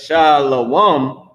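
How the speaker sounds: "shalom" drawn out as SHAH-lo-wum; common mispronunciation. Shown as a demonstration. Teacher showing students how people mispronounce shalom, stretched SHAH-lo-wum. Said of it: "how they pronounce it".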